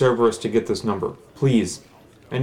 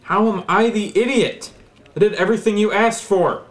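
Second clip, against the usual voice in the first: indignant; 6 semitones higher than usual. Acted. Caller indignant.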